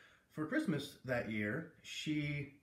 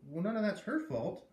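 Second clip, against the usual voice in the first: matter-of-factly; 5 semitones higher, 3 dB louder than usual. Acted. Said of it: "I said matter-of-factly".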